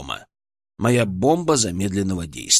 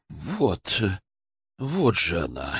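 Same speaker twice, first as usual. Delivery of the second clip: hushed, low, relieved; shocked whisper; 5 semitones lower, 6 dB quieter, much slower than usual. A narrator's reading. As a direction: breathe it out in shock. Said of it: "прошептал он".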